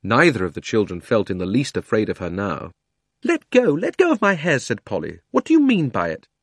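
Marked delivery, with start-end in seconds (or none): 3.2-6.3 angry yell. Acted. Polly yelling at the witch holding her hair. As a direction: order her off sharply.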